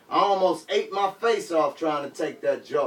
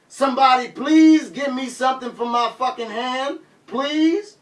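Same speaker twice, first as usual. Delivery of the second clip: higher, louder begging holler; hollered plea; 8 semitones higher, 4 dB louder than usual. Retold or imitated. Bleeding rapper hollering back at the crowd, loud plea. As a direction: beg them for help. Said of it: "I hollered back".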